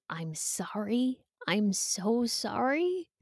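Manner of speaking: a sincere apology, drawn out slowly; slow heartfelt apology. Pretend. Mother apologizing to her hurt adult daughter, slow and sincere. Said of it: "Maybe even an".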